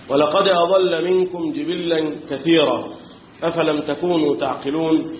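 slow, measured recitation; tajweed-style recitation of the verse; Quran recitation. Acted. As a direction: chant the verse slowly.

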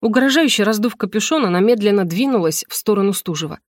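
usual speaking voice

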